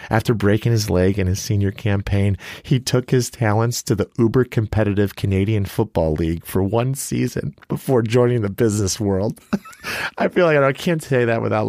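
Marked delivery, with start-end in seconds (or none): 0.1-9.4 brisk read-out of a speaker bio; reading a bio aloud. Real, not acted. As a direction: read it out like a formal introduction. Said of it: "I gotta read it for you".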